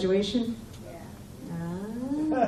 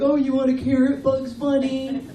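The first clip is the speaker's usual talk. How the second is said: taunting bully voice; 4 dB louder than usual. Retold or imitated. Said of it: "He'd be like".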